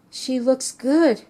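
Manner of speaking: slow, tearful and halting; fighting back tears on each word; real emotion catching in the throat; choked up. Real, not acted. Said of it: "I still get choked up".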